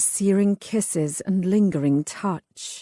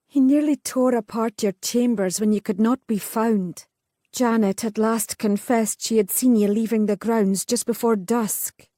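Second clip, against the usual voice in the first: a touch higher, reproachful sister; lightly voiced older sister; 4 semitones higher than usual. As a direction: lay out the evidence to her. Catherine explains father's drunken search.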